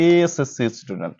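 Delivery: এএসএসসি slowed, stretching the opening e; sounding out SSC. Shown as a demonstration. Teacher showing students an abbreviation starting with e. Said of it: "এসএসসি টা উচ্চারণ করো".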